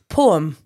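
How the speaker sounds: "Poem" squashed into one syllable, "pome"; friend's pronunciation. Retold or imitated. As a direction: say "Poem" loudly as a single drawn "pawm". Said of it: "I asked her how she pronounced it".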